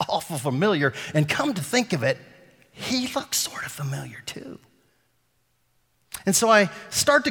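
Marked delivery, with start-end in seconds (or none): 2.7-4.6 dropped to a near whisper; hushed storyteller reveal. Retold or imitated. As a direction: let it fall to a secret hush.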